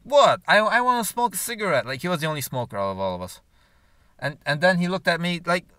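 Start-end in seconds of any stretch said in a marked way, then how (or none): 0.0-1.9 imitating boyfriend. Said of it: "he's like".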